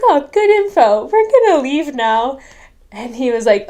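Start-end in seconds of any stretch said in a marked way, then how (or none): 0.0-2.4 high, loud hurried exit line; nervous retreat. Retold or imitated. Missionaries back off from armed neighbour, high nervous babble. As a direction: back away fast and high-pitched.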